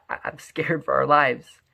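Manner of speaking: hushed, slow, frightened; scared whisper. Acted. Husband whispers his fear to his wife, scared. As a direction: breathe it out in fear.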